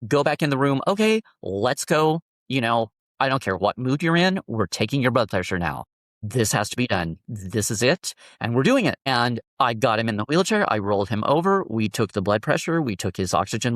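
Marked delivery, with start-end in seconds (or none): 0.0-9.0 upbeat positive switch. Retold or imitated. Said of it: "change my attitude completely and just be like".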